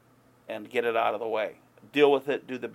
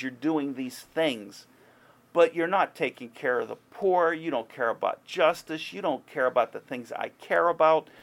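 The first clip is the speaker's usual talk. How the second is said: God's angry rebuke; 4 semitones higher, 3 dB louder than usual. Retold or imitated. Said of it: "so let's translate that to today".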